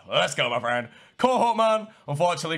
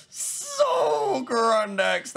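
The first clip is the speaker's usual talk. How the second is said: mock sob; 10 semitones higher, much slower than usual. Opponent logs out of game.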